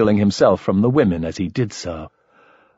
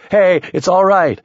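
urgent calming; 10 semitones higher, 5 dB louder than usual. Acted. Calming a fight.

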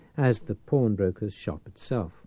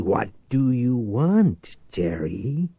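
cold; 5 dB louder, slower than usual. Acted. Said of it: "Reich repeated coldly".

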